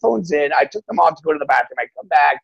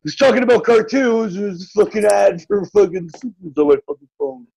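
mock complaining user; 3 semitones higher than usual. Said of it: "people complain about".

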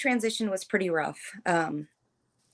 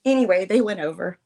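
halting, with long pauses to regain composure; emotional, broken-up phrases; real tearing up; 2 semitones higher than usual. Real, not acted. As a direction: struggle to continue while choked up. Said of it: "I don't know why I'm getting all like this".

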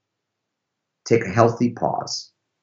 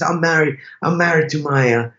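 hesitant mock Italian, searching for words; awful Italian accent; 4 semitones higher than usual. Driver tells the visitors about his marriage, awful Italian accent. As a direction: put on a bad Italian accent, haltingly. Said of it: "That's an awful Italian accent".

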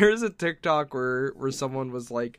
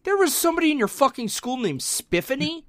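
high rising disbelief; amazed and doubtful; disbelieving; 10 semitones higher than usual. Real, not acted. Disbelief at name.

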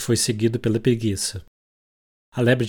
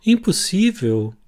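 gently; 9 semitones higher, 4 dB louder, slower than usual. Acted. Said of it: "Alice comentou gentilmente".

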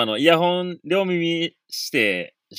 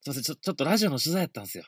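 showing off; 6 dB quieter, much faster than usual. Retold or imitated. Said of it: "かっこつけたなと思って".

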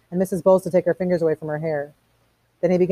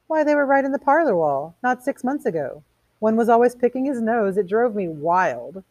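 chatty indignant woman; 7 semitones higher than usual. Acted. Woman answering Montag about the parlor wall, higher and fussy.

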